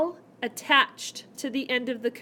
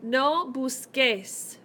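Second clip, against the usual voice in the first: slow demo; much slower than usual. Shown as a demonstration. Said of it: "B U S".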